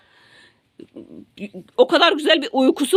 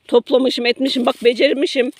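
ordinary talk, nothing marked

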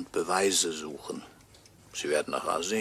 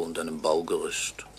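whisper; 3 semitones lower than usual. Acted. Murdered man's ghostly voice.

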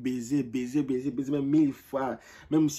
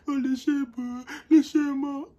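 put-on much higher, louder childish wail; mock wailing child; 13 semitones higher, 6 dB louder than usual. Children crying at the TV, hammed-up high wail. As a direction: wail like a kid whose movie dog just died. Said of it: "les enfants pleurent".

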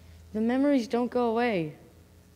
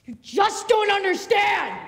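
frustrated outburst; 6 semitones higher, 3 dB louder, slower than usual. Acted. Brother snaps at sister.

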